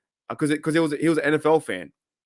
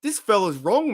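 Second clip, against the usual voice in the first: amused aside; 7 semitones higher than usual. Retold or imitated. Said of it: "I'm like".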